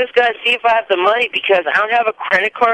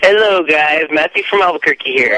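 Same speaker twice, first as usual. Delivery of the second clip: over a landline phone. Real, not acted. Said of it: "Why do you sound different?".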